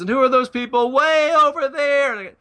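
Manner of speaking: a hint of the wide-eyed guy at heaven's gate; lightly voiced new arrival asking about the far group; curious newcomer. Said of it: "and he says".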